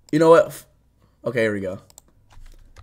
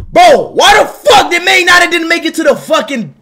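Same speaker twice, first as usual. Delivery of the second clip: frustrated shout; 5 semitones higher than usual. Real, not acted. Annoyed rant about Man United.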